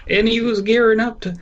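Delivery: high, goofy cartoon voice; cartoon dog voice. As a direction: ham it up like a cartoon. Scooby-Doo cartoon voice.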